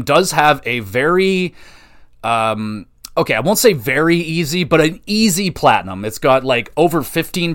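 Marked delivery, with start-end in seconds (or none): none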